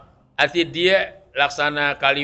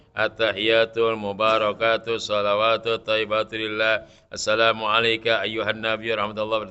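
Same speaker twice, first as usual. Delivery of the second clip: recited without pause; 5 semitones lower than usual. Shown as a demonstration.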